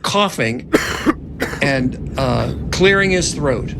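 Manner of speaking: suspenseful screenplay read over music; dramatic narration. A narrator's reading. Narrator reading the action lines to the cast, tense storytelling. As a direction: tell the horror beats with tension.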